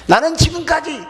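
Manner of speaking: indignant protest. Acted. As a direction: hurl an accusing question at Father. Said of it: "어, 따지는 거예요". (따지듯 높게 외치는 소리)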